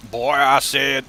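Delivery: lightly voiced southern cartoon rooster; a hint of a drawn-up southern cartoon voice; Foghorn Leghorn. Streamer likens his old boss to a cartoon, light impression. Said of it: "literally sounded like Foghorn Leghorn's".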